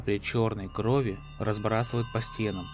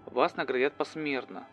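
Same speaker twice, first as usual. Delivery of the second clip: formal mission control; 3 semitones higher than usual. Acted. Mission control answers coldly.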